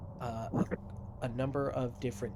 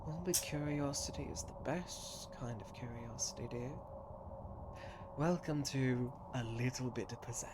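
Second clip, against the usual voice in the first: tattooist welcoming customer; 4 dB quieter than usual. Acted. GM voices tattooist Doc.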